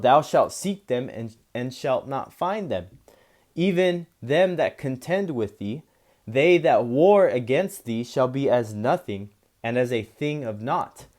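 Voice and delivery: slow, measured scripture reading. Acted. Preacher reading a verse of Isaiah to listeners, slow and solemn. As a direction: read the verse slowly and solemnly. Reads verse twelve aloud.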